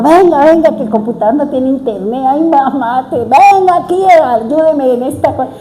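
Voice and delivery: llamando a la hija a gritos, agudo y fuerte; ¡venga, venga!, pidiendo ayuda alarmada; llamado a gritos. Retold or imitated. (la madre llama a gritos a su hija por el internet, voz alta y aguda)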